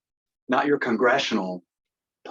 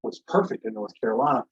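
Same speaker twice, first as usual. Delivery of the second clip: mocking clown; 4 dB louder than usual. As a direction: ham up a smug official dismissing fraud. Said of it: "their clowns running around saying".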